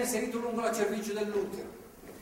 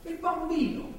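higher, pressing plea; higher, insistent pleading; urgent pleading; 8 semitones higher than usual. Acted. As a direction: beg her urgently to keep the child. Pleading with girl not to abort.

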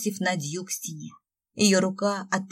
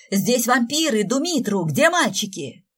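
screaming in panic; 4 semitones higher, 6 dB louder than usual. A narrator's reading. Nadya screams about vampires.

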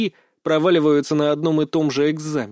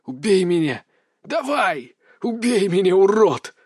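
desperate plea, half shout; pleading; 4 semitones higher than usual. Acted. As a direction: beg for the end. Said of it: "Мои слова были скорее мольбой, чем вызовом".

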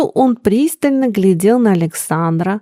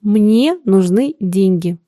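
calm; slower than usual. Acted. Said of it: "спокойно заметил сын".

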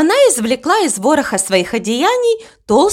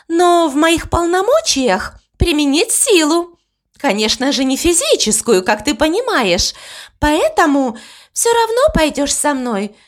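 put-on raised pitch, insistent young Death; a lightly higher, pushy Death; 4 semitones higher than usual. Death voiced by narrator.

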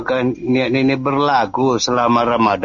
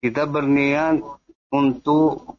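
corrupted glitchy audio; slower than usual. Real, not acted. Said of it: "Jangan putus-putus".

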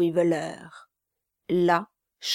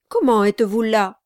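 puzzled gentleman; 7 dB louder, faster than usual. Acted. Mr Abel voiced.

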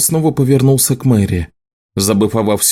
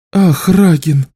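laughing; 7 semitones higher, 3 dB louder, slower than usual. A narrator's reading. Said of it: "засмеялась Элиса".

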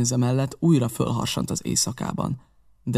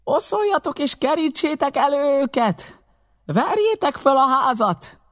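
high, sustained yell; insistent high bellow; shouted command; 14 semitones higher than usual. A narrator's reading. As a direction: bark the order to the whole gang. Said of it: "ismételte meg a parancsot Pew".

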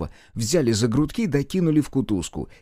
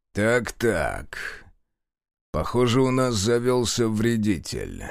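through gritted teeth; slower than usual. Acted. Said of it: "затем процедил сквозь зубы".

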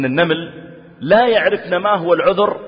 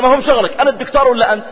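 arrogant professor; 7 semitones higher, 4 dB louder, faster than usual. Retold or imitated. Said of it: "قال".

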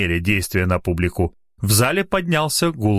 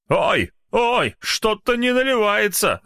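doubtful; 12 semitones higher, slower than usual. Acted. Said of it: "засомневался".

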